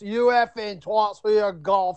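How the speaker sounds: slow mock British scolding; mild put-on British rant, drawn out. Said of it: "He started yelling at us".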